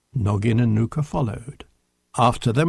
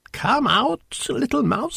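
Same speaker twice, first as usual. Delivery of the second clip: high-pitched coaxing call; gentle coaxing; 10 semitones higher than usual. A narrator's reading. Knut to the mouse hiding in a hole, coaxing. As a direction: coax a small animal out.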